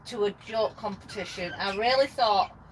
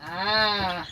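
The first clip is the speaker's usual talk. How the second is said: parrot squawk. Retold or imitated. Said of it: "he goes".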